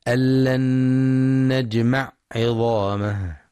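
the ayn in نجمع sounded fully, not merged; clear ayn. Shown as a demonstration. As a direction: articulate the ayn of نجمع distinctly. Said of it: "لتوضيح العين وإظهارها".

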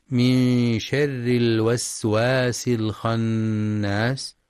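slow chanted tajweed recitation; Quran recitation. Shown as a demonstration. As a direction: recite it slowly with measured tajweed. (تلاوة مجودة بطيئة)

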